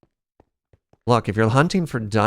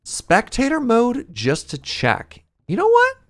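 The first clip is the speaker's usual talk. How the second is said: high squeaky voice; 13 semitones higher, 4 dB louder than usual. Pretend. Excited squeaky high run.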